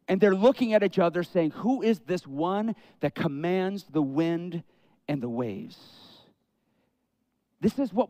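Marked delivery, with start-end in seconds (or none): 1.5-8.1 hushed, awed whisper. Retold or imitated. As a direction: breathe it out in holy awe.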